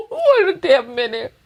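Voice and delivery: high, falling exclamation of disbelief; amused disbelief. Real, not acted. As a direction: call a halt, high and incredulous. Interrupts clip in disbelief.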